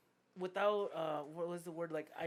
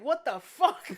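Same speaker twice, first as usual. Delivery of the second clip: higher, louder mock outburst; angry customer; 7 semitones higher, 11 dB louder, slower than usual. Imitating the pissed customer, half-laughing. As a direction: play the furious customer, laughing through it. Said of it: "He's already pissed".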